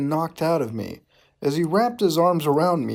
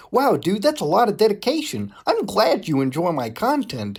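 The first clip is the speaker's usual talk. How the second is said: mock excited; 6 semitones higher than usual. Reading Mutahar's dialogue again.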